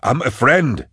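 high-pitched, urgent call; yelled plea. A narrator's reading. Man yelling at advancing animations, urgent high yell. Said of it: "he yelled".

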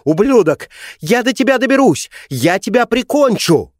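very high, loud, furious shriek; mother screams at the boy from the car; screaming. Acted. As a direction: shriek the threats as she's dragged off. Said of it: "продолжала кричать".

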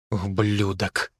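low, soft, slow hiss; through gritted teeth. A narrator's reading. Artyom about Vika's boyfriend, through gritted teeth. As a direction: spit it out with contempt. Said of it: "процедил я сквозь зубы".

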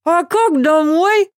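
high, slow outraged question; indignant. A narrator's reading. Asya protesting about getting home, indignant high voice. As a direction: protest the plan. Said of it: "возмутилась Ася с набитым ртом".

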